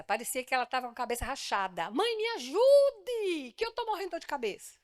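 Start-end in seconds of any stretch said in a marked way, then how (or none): 1.9-4.8 put-on high childish cry for help; child pleading. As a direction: beg like a little kid in pain. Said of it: "ela chegava em casa com dor de cabeça".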